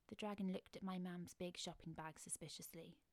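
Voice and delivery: usual speaking voice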